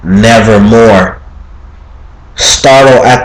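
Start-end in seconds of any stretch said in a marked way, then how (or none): 0.0-1.2 low, slow, ominous raven croak; raven's reply. Acted. The raven answers the grieving narrator, low and slow. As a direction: drop deep and slow for the bird's one word. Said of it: "Then the bird said".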